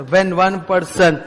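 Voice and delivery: very slow, measured rote delivery; parrot-style recitation. Shown as a demonstration. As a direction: drill each word into the students' memory. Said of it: "एकदम याद करो अच्छे से".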